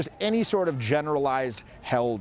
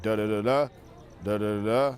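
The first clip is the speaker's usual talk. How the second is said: low, flat repetitive da da da; boring predictable singsong; monotone cadence; 3 semitones lower than usual. Shown as a demonstration. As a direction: drone the da da da in a low sameness. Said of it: "They'll be like".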